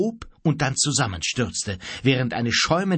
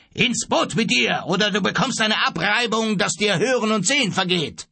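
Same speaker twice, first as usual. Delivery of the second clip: high, raised-voice captain's bellow; thundering threat; 9 semitones higher than usual. A narrator's reading. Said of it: "Er erhob seine Faust und donnerte". (donnernd drohen)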